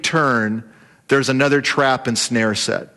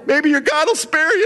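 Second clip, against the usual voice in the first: encouraging; 11 semitones higher than usual. Acted. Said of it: "he's trying to encourage Daniel".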